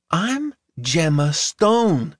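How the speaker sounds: lightly voiced girl, stressing Stone; a hint of a girl's firm announcement. A narrator's reading. Gemma announces her name.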